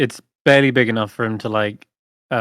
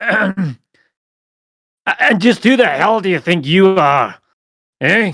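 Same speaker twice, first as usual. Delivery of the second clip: loud, pitched-up yell; 8 semitones higher, 5 dB louder than usual. The game master voices a character confronting the party, yelling. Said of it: "quit yelling at people".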